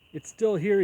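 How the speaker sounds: loud, high, furious outburst; enraged owner shouting high and loud; furious cry. A narrator's reading. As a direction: explode at the sight of it. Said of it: "he cried".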